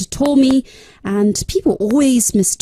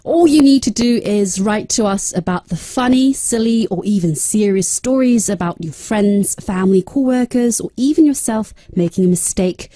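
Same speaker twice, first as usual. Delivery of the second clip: reading the script in British English; British-accented radio script. Shown as a demonstration. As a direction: give a proper British read. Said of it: "I'll try British".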